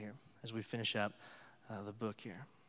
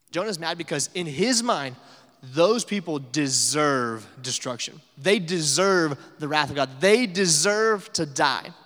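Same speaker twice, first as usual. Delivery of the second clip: angry Jonah rant; 3 semitones higher, 8 dB louder than usual. Retold or imitated. Preacher voicing Jonah's angry mind.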